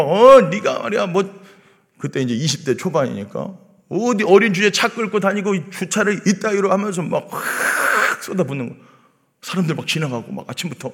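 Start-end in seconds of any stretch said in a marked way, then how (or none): 0.0-6.7 mock scolding. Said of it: "쌍욕이 막".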